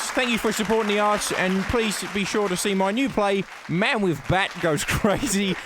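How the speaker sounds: a hint of a Bob Franklin voice; lightly voiced menacing showman; theatre villain. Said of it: "attempting a Bob Franklin impression".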